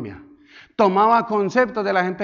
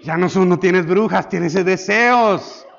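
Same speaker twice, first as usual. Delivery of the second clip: louder, laughing realization; realizing, laughing; 4 dB louder, slower than usual. Retold or imitated. Pastor grasps the real word, laughing. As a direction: laugh at your own mix-up.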